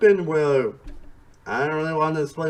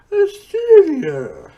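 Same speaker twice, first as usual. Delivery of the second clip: mock Aussie drawl; 14 semitones higher, 15 dB louder, much slower than usual. Playful Aussie echo.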